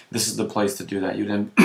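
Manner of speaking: losing voice, a bit hoarse; strained, hoarse throat. Real, not acted. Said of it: "I'm losing my voice".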